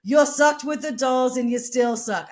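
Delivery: imitated jeer from the crowd; retold heckle. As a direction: throw it out like a heckler. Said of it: "He yelled things at Johnny Thunders".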